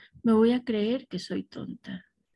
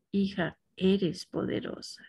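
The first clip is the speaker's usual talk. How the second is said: softer, tender "Hija, eres poderosa" as if from a parent; gentle "Hija" with a falling, softer "eres poderosa"; heartfelt parental blessing; 4 dB quieter than usual. Shown as a demonstration. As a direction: bless her like a loving mother would. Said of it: "sí notan ustedes la diferencia".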